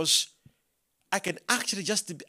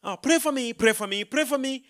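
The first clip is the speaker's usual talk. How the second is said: retold pleading; 7 semitones higher than usual. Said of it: "and people be like".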